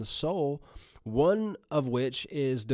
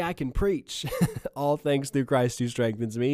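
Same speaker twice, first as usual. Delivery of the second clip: mock misquote. Shown as a demonstration. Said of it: "He didn't just say".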